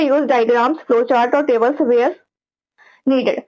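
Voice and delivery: each word spaced out slowly like a heading; deliberate slow heading read; slow dictation. Shown as a demonstration. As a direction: dictate it slowly so students can write. Teacher dictates a tip heading.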